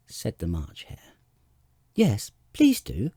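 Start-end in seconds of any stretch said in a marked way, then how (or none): 1.9-3.1 pleading. A narrator's reading. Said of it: "pleaded Alice".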